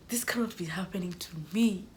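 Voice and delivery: hushed, disbelieving aside; stunned whisper. Retold or imitated. Student hearing her snacks stay in the office, stunned whisper. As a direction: whisper it to yourself in dismay. Private dismay at her punishment.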